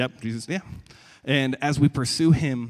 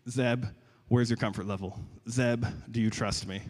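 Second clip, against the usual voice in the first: gentle challenge; 4 dB quieter than usual. Retold or imitated. Voices the Lord gently challenging him.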